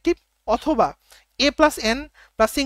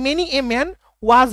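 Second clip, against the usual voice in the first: "many a man was" very slow and a little louder, rising on "many"; slow, louder teaching read; slow model phrase; 5 dB louder, much slower than usual. Shown as a demonstration. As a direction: present "many a man was" slowly to the class. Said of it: "হবে, তাই না?".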